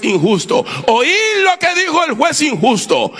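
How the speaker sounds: emphatic sermon delivery; preaching. Acted. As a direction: preach it out, rising to a high final line. Preaches a parable with force.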